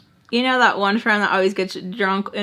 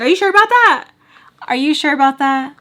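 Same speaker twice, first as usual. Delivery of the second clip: loud, high retold confrontation; hammed-up accusing challenge, raised voice; in-your-face challenge; 6 semitones higher, 6 dB louder than usual. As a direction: get right in their face with it. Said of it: "In her face".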